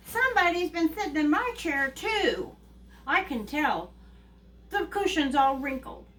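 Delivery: lightly voiced mother bear, starting high; a hint of an indignant mother bear; Mama Bear. Mother bear finding her chair sat in, mildly indignant. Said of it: "Mama Bear goes".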